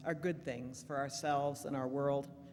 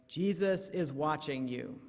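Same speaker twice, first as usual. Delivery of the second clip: voice in the dark; 3 dB louder than usual. Acted. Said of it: "hears a loud voice say".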